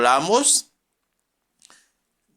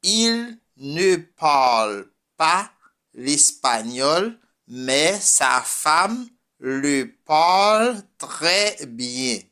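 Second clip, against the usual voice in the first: slow repeat; slower than usual. Shown as a demonstration. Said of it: "unas frases en francés".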